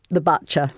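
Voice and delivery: 'butcher' with an 'uh' as in 'but'; mock-posh 'butcher', said as 'batcher'; northerner's overcorrected U. Imitating northerners trying to sound posh, overcorrected U in butcher. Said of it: "you get people occasionally saying".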